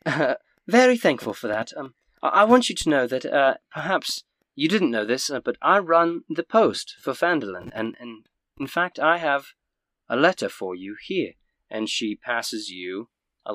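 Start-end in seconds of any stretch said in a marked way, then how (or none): 0.1-11.3 put-on stammering southern older woman, higher pitched; lightly southern, thankful innkeeper's wife; southern accent. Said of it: "you're turning everybody southern all of a sudden".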